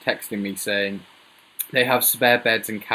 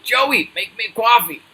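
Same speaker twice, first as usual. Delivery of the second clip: higher, loud put-on American accent; 11 semitones higher, 4 dB louder than usual. Shown as a demonstration. Repeating the coffee order to Joey, in a loud put-on American accent. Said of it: "That's my American accent".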